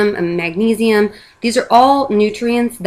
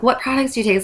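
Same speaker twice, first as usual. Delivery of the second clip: eager, higher question; excited; 5 semitones higher, faster than usual. Retold or imitated. Asking a friend about her products, excited. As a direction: lean in, all excited to know. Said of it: "So I'm all excited".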